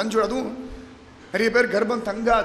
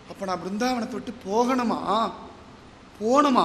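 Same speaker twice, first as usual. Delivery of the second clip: tearful question; 3 semitones lower, 4 dB quieter than usual. Acted. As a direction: plead in disbelief, understated. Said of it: "திருவடியை பிடிச்சிட்டு அழ ஆரம்பிச்சு விட்டா". (லேசான அழுகை கலந்த கேள்வி)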